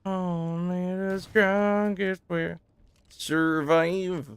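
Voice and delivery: slow, epic movie-trailer line; dramatic trailer voice. Pretend. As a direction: intone it like a trailer narrator.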